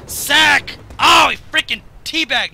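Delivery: sudden loud yell of shock at the game; real gamer outburst, loud and startled; excited yell. Real, not acted. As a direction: blurt it out, caught off guard. Gamer yelling at the match.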